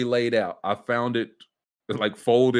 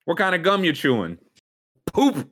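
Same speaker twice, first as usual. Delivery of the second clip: mock heckle; 8 semitones higher, 4 dB louder than usual.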